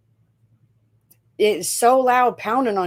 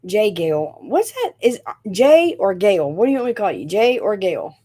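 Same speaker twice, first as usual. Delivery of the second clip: usual speaking voice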